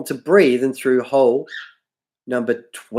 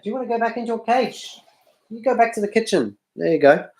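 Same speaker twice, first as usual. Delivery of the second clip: talking to the dog; 9 semitones higher, faster than usual. Real, not acted. Shooing the dog Charlotte away.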